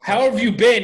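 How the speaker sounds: insistent repeat. Real, not acted. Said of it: "I asked?".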